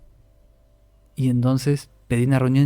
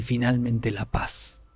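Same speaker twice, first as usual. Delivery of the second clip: much softer and very slow; 5 dB quieter, much slower than usual. Retold or imitated. The vision's voice granting peace, soft and slow. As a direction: let it out softly, like release.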